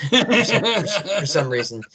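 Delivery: laughing mid-sentence. Real, not acted. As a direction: breaks into laughter.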